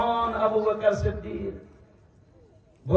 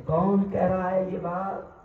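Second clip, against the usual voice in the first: lovingly; 7 semitones lower than usual. A narrator's reading. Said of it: "ابو بکر بڑے پیار سے پوچھتے ہیں".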